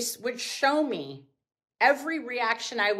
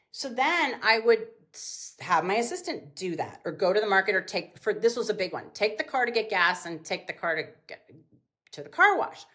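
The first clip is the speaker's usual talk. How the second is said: usual speaking voice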